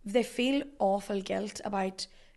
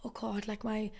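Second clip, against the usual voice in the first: softer, imitated guilty thoughts; guilty self-talk; 6 dB quieter than usual. Solo traveller thinking of friends at home working, guilty self-talk. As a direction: fret under the voice, reenacting the guilt.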